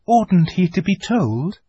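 put-on high, anxious child's voice; questioning girl. A narrator's reading. Lucy asks Susan whether Edmund should be told, questioning. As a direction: press the question on her sister.

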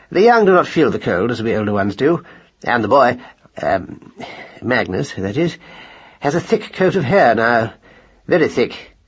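earnest, halting explanation; mildly self-important, with fumbling pauses; lightly voiced pompous husband. Mouse husband reassures wife about their son, mildly pompous.

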